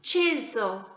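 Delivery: "chisel" in two separate beats; syllable counting. Shown as a demonstration. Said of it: "Let's count how many syllables".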